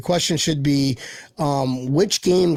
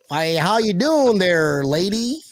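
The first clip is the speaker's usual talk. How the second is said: mock Western drawl; slower than usual. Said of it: "you just sound Western".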